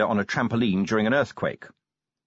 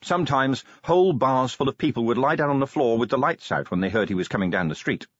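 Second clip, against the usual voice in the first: plain reading voice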